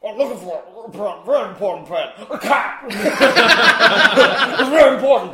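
lightly mimicked quote, rising up; imitating a character. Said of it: "I don't know what he says before he says".

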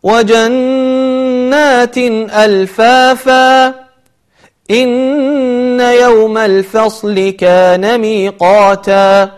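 slow, melodic tajweed recitation; Quran recitation. Shown as a demonstration. Teacher reciting the verses before the lesson, chanted. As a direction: chant the verses with long held vowels.

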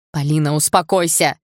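loud urgent order, pitch unraised; shouting. A narrator's reading. Igor restraining hysterical Polina, shouting. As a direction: call out firmly to stop her. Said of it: "закричал Игорь".

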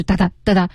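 choppy "哒哒" with breaks between; one beat per syllable. Shown as a demonstration. Co-host warns students against this, word-by-word and choppy. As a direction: chop "哒哒" into separate beats. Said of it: "一字一顿的了".

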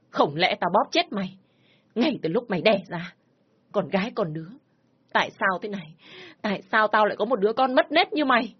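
bitter furious scolding; angry growl. Acted. Father raging at his shamed daughter, angry. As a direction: growl at her in disgust. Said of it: "Giọng ông Năm tức giận, gầm gừ".

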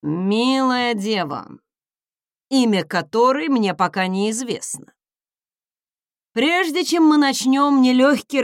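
pompous envoy asking for a coat; grand, flowery dragon envoy. Acted. Dragon envoy voices request.

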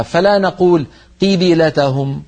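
قبلتهم with the ba pulled toward i; قبلتهم as qibilatahum; wrong kasra colour. Shown as a demonstration. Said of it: "غير متأثرة بالكسرة قبلها". (باء متأثرة بالكسرة، خطأ)

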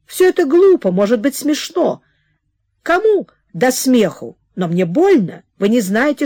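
a touch of heated pleading; pleading lover. Acted. Alexander pleading with Nadenka. (мольба с жаром)

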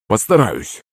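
grudging, subdued assent; grumbling promise. A narrator's reading. Frog promising to play along, grumbling. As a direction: agree reluctantly, half under protest. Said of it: "проворчал Захарыч".

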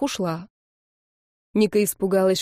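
ordinary delivery, nothing marked

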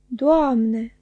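a loud, startled cry of Doamne; the waiter cries out at the sight of the chops, loud and startled; exclaiming. Acted. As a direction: shout it out in surprise. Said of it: "a strigat el".

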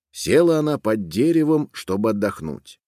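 ordinary delivery, nothing marked

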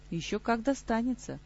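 hollow voice from the grave; a mild undead lord's voice; sepulchral voice. Acted. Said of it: "глухой замогильный голос".

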